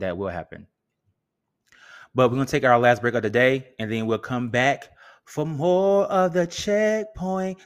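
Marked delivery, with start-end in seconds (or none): 2.1-7.6 hyped break announcement. Acted.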